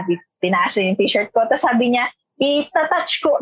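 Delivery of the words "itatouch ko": mild imitation. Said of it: "ganun pa siya".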